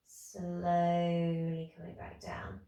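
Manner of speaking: slow, breathy whisper of the instruction; whispered cue. Real, not acted. Instructor guiding class down, whispered. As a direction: whisper it as you ease down.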